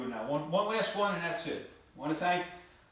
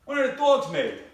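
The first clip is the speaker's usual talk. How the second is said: loud, high call into the next room; yelled question; 8 semitones higher, 8 dB louder than usual. Retold or imitated. Husband yelling to wife across the house, loud and high. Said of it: "I yell out".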